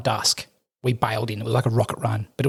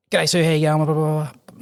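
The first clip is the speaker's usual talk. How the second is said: hyper rapid chatter; 4 semitones higher, 3 dB louder than usual. Retold or imitated. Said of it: "like, a million miles a minute".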